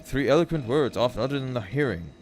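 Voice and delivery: lilting, deliberate verse reading; lyrical poem recital. Acted. Streamer reading A Valentine to chat, lilting and deliberate. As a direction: recite in measured phrases with rising and falling tune.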